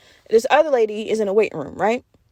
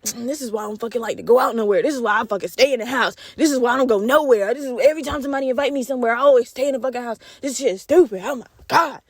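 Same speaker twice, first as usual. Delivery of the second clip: mock muttering friend. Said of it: "mumbles under her breath".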